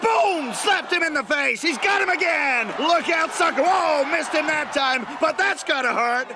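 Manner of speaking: brash, excited American commentator, often shouting; American wrestling commentator. Acted. Guest commentator hyping the bout, American accent. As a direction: hype every move like a US TV wrestling caller.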